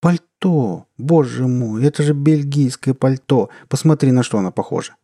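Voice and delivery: scolding wife, shocked and scared; indignant and frightened. Acted. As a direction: fuss at him, outraged and scared. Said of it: "Возмущённо и испуганно восклицала супруга".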